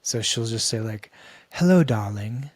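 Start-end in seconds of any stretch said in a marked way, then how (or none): 1.5-2.5 put-on muddled Eastern European-Italian accent; hammed-up mixed foreign accent; Arpita. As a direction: greet in a playful mock Armenian-Russian-Italian accent. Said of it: "she's got this crazy Armenian, Bulgarian, semi-Russian Italian accent".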